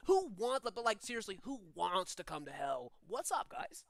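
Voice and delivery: friendly surfer-dude demon; lightly voiced dude, pitch swinging up; Crush from Finding Nemo. Demon greeting visitors to hell, lightly voiced surfer dude. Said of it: "sound like Crush from Finding Nemo".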